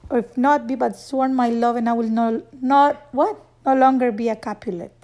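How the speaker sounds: reciting Juliet. Shown as a demonstration. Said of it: "remember all those words".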